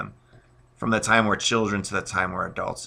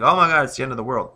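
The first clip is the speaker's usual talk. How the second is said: quick, higher and louder mock alarm; mock panic; 4 semitones higher, 5 dB louder, faster than usual. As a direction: imitate someone overreacting, rushed and raised. Mimics people overreacting to the word trauma.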